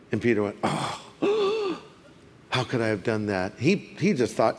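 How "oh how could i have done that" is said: hushed, gasping regret; heartbroken remorse. Acted. Peter realizing he denied Jesus, acted quiet anguish. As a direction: act out stricken remorse, low and soft. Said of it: "it'd break your heart".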